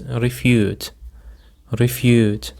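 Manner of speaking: refute said as re-FUTE, second syllable stressed. Shown as a demonstration. Teacher models refute for listeners, stress on FUTE. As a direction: put the weight on FUTE in refute. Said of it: "The stress is on the second syllable".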